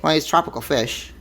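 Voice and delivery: ordinary talk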